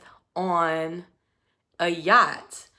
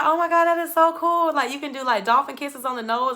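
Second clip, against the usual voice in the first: high, louder mock-impressed gush; gushing, imitated; 6 semitones higher, 3 dB louder, faster than usual. Woman reacts to his dolphin story, imitated gushing. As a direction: play up the thrilled girlfriend.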